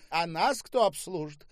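high-pitched demanding call; crying out. A narrator's reading. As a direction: call for service across the pool. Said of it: "закричала Ольга". (требовательный выкрик)

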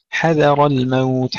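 حذر الموت drawn out, light ha and dhal, heavy ra; slow tajweed recitation. Shown as a demonstration. Teacher reciting the verse for students to copy. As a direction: chant حذر الموت slowly and carefully. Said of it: "ترقيق الحاء والذال وتفخيم الراء".

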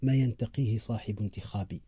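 slow dictation. Shown as a demonstration. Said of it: "اكتب".

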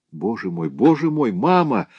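rising into a high plea; mild imploring. Acted. Clara begs her mother, mild imploring cry. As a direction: beg desperately. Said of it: "взмолилась Клара".

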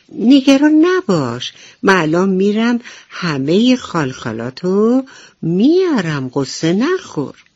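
bright little helper voice; reassuring cricket. Acted. Cricket promising the ladybug to fetch her spots, eager.

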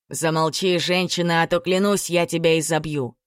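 plain reading voice

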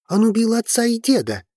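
put-on heated teenager. A narrator's reading. Teenager accuses the family head of killing his father, heated. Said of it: "горячо произнёс Тимеус".

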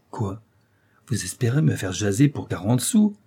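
mildly scornful question; insolent disdain. Acted. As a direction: scoff at a paltry offer. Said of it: "avec le plus insolent dédain".

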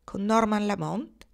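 slow, high rising question; startled. A narrator's reading. Kendra asking Marnie about her friend, startled. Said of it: "Kendra trasalì".

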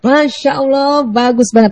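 slow stretched "Masya Allah" then "bagus banget"; awed praise. Shown as a demonstration. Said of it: "intonasi Masya Allah ... energinya tinggi".

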